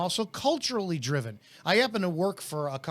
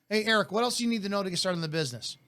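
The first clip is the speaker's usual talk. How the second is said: laid back; 2 semitones higher, faster than usual. Retold or imitated. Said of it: "It's very laid back".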